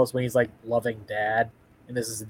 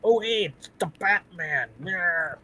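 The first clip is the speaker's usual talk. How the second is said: dopey henchman; 7 semitones higher, slower than usual. Retold or imitated. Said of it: "I do love the grunt dialogue".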